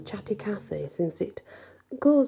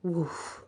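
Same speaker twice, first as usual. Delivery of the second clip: mock woof; 9 dB quieter than usual. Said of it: "I mock pant a little".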